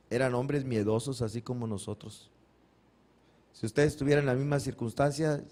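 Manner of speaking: usual speaking voice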